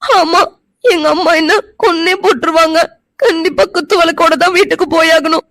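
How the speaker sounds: tearful insistence; crying. Acted. Girl crying that mother will kill her. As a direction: sob out the refusal to go home. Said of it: "அழாத".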